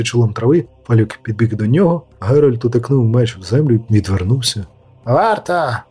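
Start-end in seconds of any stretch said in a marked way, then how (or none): 5.0-5.8 higher shouted call for the guard. A narrator's reading. Falwick calling his guard after the duel, shouting. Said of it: "викрикнув Фалюк".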